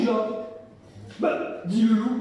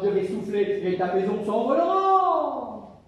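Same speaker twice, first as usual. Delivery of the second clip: slow menacing wolf threat; slower than usual. Acted. Wolf threatens the pig, slow and menacing. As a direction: draw out the threat slowly.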